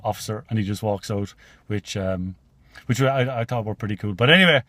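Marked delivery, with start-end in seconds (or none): 0.0-0.4 mild shy, softer mumble; a touch of sheepishness as he slinks out; half-hearted shy imitation; shyly. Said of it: "very shyly goes".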